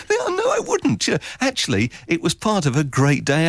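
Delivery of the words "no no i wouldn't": emphatic refusal. Retold or imitated. Rejecting the promo idea.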